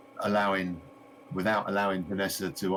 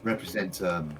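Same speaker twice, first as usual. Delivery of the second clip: higher, eager shopkeeper voice; gushing shopkeeper lady; 3 semitones higher than usual. Acted. A game master voicing the shopkeeper greeting a visitor, high and eager. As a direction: play the delighted lady greeting her customer.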